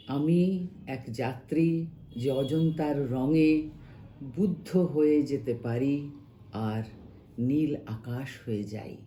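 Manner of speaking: measured Bangla verse reading, pausing between phrases; expressive recital of a translated poem; poem recitation. Acted. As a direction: recite it line by line, letting the phrase endings sink.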